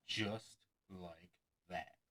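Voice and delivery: soft, slow "Just like that" in a put-on voice; slow magician patter. Shown as a demonstration. Magician mocking his own patter, soft and slow. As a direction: coo the filler like a stage magician. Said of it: "As in".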